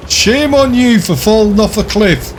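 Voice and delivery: high giggling tease, laughing through it; laughing mock scold. Real, not acted. Teasing a banned friend, laughing.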